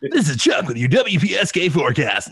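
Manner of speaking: shouted, high-pitched wacky forecaster; radio character. Acted. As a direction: belt it out like a crazed weatherman. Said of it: "I'd always create a character".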